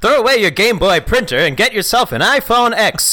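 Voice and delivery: put-on bright, punchy old-time narrator voice; 1940s newsreel announcer. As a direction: sell it like a wartime newsreel. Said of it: "Nineteen forties documentary news announcer".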